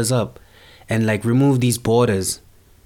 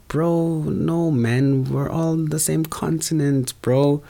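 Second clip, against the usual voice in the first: exasperated protest; 4 semitones higher, slower than usual. Retold or imitated. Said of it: "It's like".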